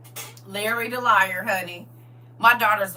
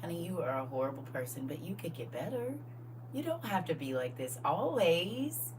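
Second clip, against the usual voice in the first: sweet put-down; 4 semitones lower, 10 dB quieter than usual. Shown as a demonstration. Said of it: "Say it with a smile".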